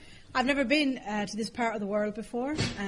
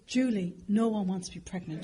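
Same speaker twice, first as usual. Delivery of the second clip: retold disgust. Mother to daughter on the escalator, understated disgust. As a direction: dismiss it with understated contempt. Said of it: "she looked at me disgusted".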